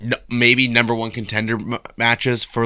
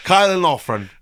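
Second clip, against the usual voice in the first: put-on name said in a jokey Irish accent, pitched higher; mock Irish accent; 7 semitones higher, 4 dB louder than usual. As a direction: roll "Kylan Loughran" out the Irish way, higher. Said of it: "Let me get my Irish voice warmed up".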